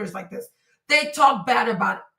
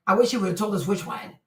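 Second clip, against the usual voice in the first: normal talking voice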